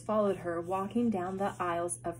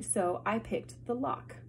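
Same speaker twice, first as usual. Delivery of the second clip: calm; slower than usual. Acted. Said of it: "Violet said calmly".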